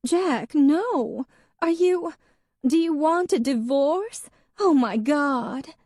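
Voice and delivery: the wife about to break down; bursting into tears. A narrator's reading. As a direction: beg in rising panic. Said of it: "She burst into tears".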